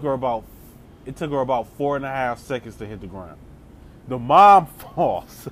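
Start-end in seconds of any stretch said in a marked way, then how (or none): 4.1-5.5 laughing through the words; cracking up mid-line, slow; slow words broken by a laugh. Real, not acted.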